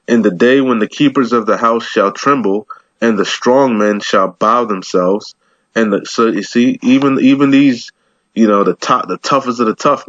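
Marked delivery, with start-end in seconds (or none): 0.1-5.3 scripture reading. Acted. Reads scripture aloud.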